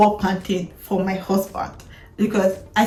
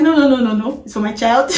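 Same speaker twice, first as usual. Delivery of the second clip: insistent refusal. Retold or imitated. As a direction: cut him off firmly. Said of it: "I'm like".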